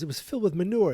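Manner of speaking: high mock Biff whine. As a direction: quote it in a hammed-up Biff voice. He goes, quoting Biff.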